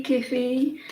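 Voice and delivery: "Kiffy" said as KEH-fee; regional coffee pronunciation. Retold or imitated. Streamer testing ways to ask for coffee, regional pronunciation. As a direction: try "Kiffy" with a short e in the first syllable. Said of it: "How do you say coffee?".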